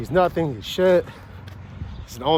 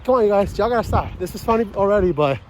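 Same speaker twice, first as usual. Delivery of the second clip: high, nervous pleading, pitched way up; mock panic; 4 semitones higher than usual. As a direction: beg them to stop the joke, rattled. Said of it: "And he's like".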